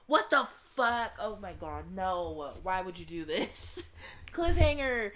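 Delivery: loud, high exasperated shouting; outraged disbelief. Real, not acted. Player hit by a cliffhanger, outraged shouting. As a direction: yell it in stunned protest.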